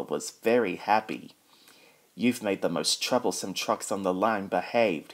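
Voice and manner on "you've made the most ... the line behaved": smiling. Acted. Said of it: "he smiled".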